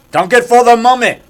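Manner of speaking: mock-dramatic rallying cry; movie ritual command. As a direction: proclaim it for the mummy. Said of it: "Like I tell her, I go".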